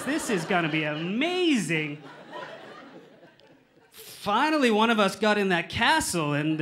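forced excitement with swooping stressed words; badly faked excitement. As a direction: overdo the enthusiasm unconvincingly. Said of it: "I'm really bad at faking I'm excited".

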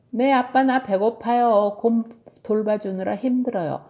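put-on little kid grumbling to a parent; complaining child. Tilly tells dad she is hungry, complaining child.

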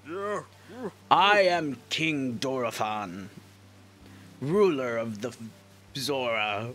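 slow, stately king voice; regal old king. Acted. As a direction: address a guest from the throne. Reads the Zora king's dialogue.

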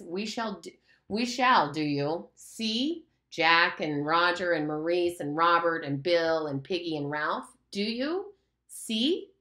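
slow, drawn-out threat; menacing Lord of the Flies. Acted. The beast threatens Simon before he faints, slow menace. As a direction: loom over him, savouring each word.

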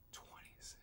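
breathy whispered echo of the number; awed whisper. Real, not acted. Commentator repeating the crystal count, awed whisper. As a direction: whisper it back, stunned.

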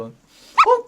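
ordinary delivery

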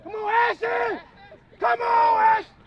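cheering from the stands. Real, not acted. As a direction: spur the player on.

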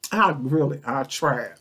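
smacking lips while eating. Real, not acted. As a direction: talk with sticky food in mouth. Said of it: "Excuse the smacking".

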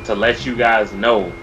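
slow formal announcement voice; mock-official PSA delivery; public service announcement. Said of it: "I got a public service announcement".

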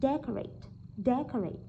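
"decorate" stressed on its first syllable. Shown as a demonstration. Teacher models word stress, "decorate" with first syllable stressed. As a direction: hit the opening of "decorate", then ease off. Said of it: "phải rơi vào âm thứ nhất".

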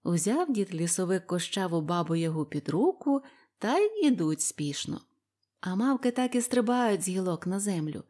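ordinary delivery, nothing marked

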